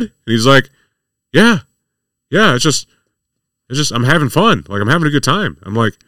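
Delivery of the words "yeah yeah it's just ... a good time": higher, lightly voiced happy reveler; carefree patient. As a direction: imitate a harmless guy just enjoying himself. Voices patient found to be fine.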